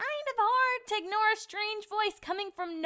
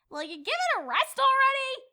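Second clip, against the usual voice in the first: louder and higher, fed up; shouting at the air; 6 semitones higher, 4 dB louder than usual. Acted. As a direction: yell at the empty air to stop. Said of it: "She shouted at the air".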